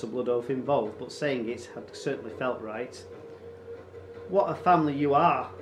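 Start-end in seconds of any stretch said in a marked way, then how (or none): 4.3-5.5 mock exasperation. A narrator's reading. Raider scoffs, shaking his head.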